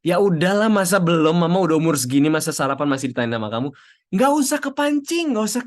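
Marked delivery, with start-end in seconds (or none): 0.0-3.7 annoyed mom. Retold or imitated. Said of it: "Walaupun orang tuamu bilang".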